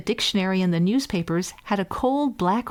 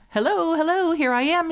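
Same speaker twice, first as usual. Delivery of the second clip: shouted; 9 semitones higher than usual. A narrator's reading. Hans hails his brothers a third time, shouting. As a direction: shout it cheerfully. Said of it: "shouted Hans Clodhopper".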